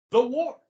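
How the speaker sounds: "the" stressed, whole phrase loud. Shown as a demonstration. Teacher revealing Canada's name for the war, "the" stressed. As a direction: hit "the" hard as the one and only.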